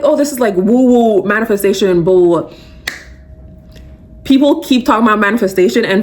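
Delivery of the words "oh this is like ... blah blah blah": mocking skeptics. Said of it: "a lot of people are like".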